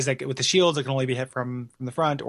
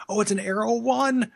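excited; 8 semitones higher than usual. Retold or imitated. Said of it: "you're so excited to get whatever this".

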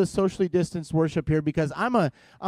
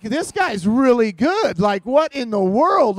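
awed; 4 semitones higher, 4 dB louder, slower than usual. Retold or imitated. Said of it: "I'm like".

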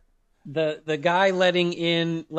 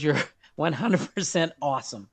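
bad Wisconsin accent, hammed up; a clumsy, overdone Wisconsin accent. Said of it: "Terrible Wisconsin accent".

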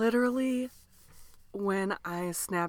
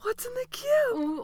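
announcer intro; 3 dB louder, slower than usual. Acted. Mock podcast intro announcement.

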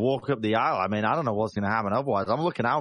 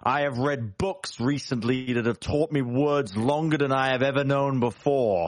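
intimidating boast; 3 semitones higher than usual. Acted. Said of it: "I am going to tower over this little man and intimidate".

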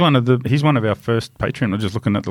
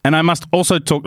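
higher, put-on Italian English; Italian accent; 6 semitones higher than usual. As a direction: carry on the story in mock Italian. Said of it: "try and do an Italian accent".

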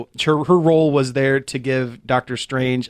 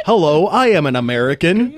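put-on American accent. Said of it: "Benedict's, uh, American accent".

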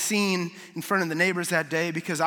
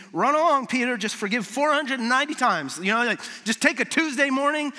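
breezy and a little higher, tossing it off; flippant brush-off; 5 semitones higher than usual. Retold or imitated. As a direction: make it sound like no big deal. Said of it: "is not saying".

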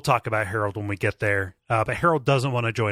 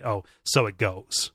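slow resigned quote; slower than usual. Shown as a demonstration. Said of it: "in the same way that I might say".

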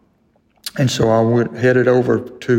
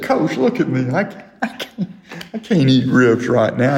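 pleading to the coach. Retold or imitated. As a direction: beg Coach not to make you eat.

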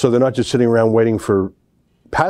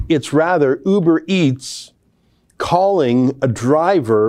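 sarcastic reveal; 5 semitones higher, slower than usual. Acted. Sarcastic punchline after build-up.

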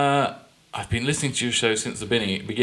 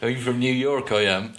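hammed-up New York accent; American accent; slower than usual. Host attempting the requested accent, mock New York American. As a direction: have a rough go at an American accent. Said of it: "in an American accent".

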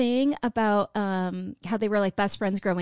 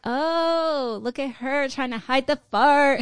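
laughing; 5 semitones higher, 3 dB louder, slower than usual. Retold or imitated. Mocking remark while laughing.

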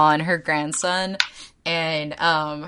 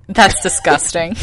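laughing, loud mock outrage; mock disgusted shout; 5 dB louder than usual. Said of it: "and I'm like".

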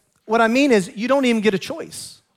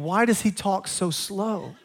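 slow, softer, amused quote; slowed-down puzzled quote with a laugh; mock puzzled listener; 5 dB quieter, slower than usual. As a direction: tease the newcomer's question. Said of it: "you're thinking".

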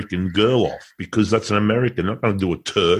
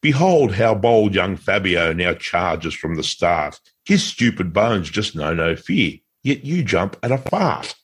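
poem recital. Pretend. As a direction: recite it like an old epic ballad. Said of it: "I wrote it in the style of Lord Babington Macaulay".

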